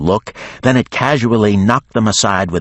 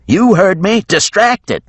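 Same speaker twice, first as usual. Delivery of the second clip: much higher, louder shout; yelled order; 5 dB louder than usual. A narrator's reading. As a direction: bark the order across the deck. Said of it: "she yelled".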